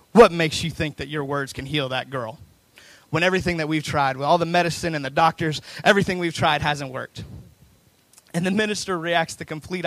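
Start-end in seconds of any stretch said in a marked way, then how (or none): 0.1-7.2 raised voice, a touch bitter; mock yell. Bitter man in the crowd interrupts the praying minister, retold yell. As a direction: call out a bitter challenge, half-yelled. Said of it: "yells out, and he's like".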